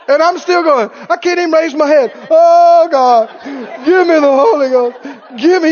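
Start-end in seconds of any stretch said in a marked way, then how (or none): 2.3-5.7 loud cries of Oh God, then pleading; crying out to God. Retold or imitated. Young man tarrying at the altar, loud pleading cry. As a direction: beg for the Holy Ghost out loud.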